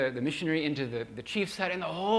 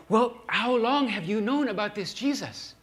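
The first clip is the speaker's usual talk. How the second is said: put-on higher, louder pleading old voice; pleading old man; 7 semitones higher, 5 dB louder than usual. Old shaman presses the missionary, high pleading old voice. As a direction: ask it like a desperate old shaman. Grandpa's voice in story.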